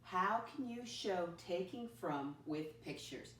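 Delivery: put-on slow, clear reading for kids; slow read-aloud. Shown as a demonstration. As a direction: read it slowly so they can follow. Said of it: "let me read the essential question by myself".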